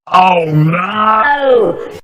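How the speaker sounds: loud, crying shout of panic; panicked shout. Acted. Boy in the shower as his mum comes in, panicked shout. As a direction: yell out in sheer dread.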